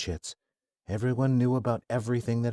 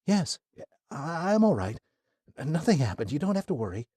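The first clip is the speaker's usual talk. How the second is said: put-on lightly raised, gentle young woman; young woman, reassuring; 7 semitones higher than usual. Athena reassuring Kai she is unhurt, lightly voiced. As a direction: brush off his worry kindly.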